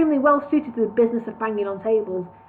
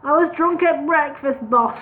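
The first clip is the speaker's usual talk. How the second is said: hopeful; 4 semitones higher than usual. Acted. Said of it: "he added hopefully".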